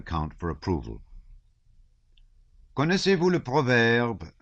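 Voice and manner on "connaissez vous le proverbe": sly wit. A narrator's reading. Shinshin's witty French quip.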